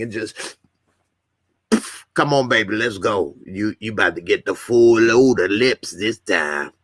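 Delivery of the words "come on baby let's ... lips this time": lightly voiced smooth seducer; a hint of a suave ladies' man coaxing; Tariq impersonation. Host mimicking the show character seducing a woman, lightly voiced. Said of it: "That's my Tariq impersonation".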